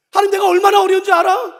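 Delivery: high, shouted complaint to God; acted loud protest. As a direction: cry out in grievance, at full volume. Acts believer protesting to God.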